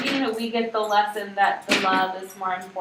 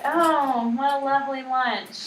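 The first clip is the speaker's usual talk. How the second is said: sarcastic; 3 semitones higher, slower than usual. Shown as a demonstration. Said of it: "stabbing your lunch, you're like".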